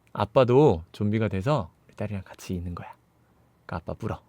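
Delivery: low, hushed father's voice; subdued acted plea; quiet plea. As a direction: softly urge your daughter, pitched low. Father quietly begs daughter to bite.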